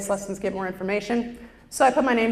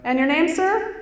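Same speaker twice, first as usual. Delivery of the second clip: polite clerk; 8 semitones higher than usual. Retold or imitated. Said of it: "And they're like".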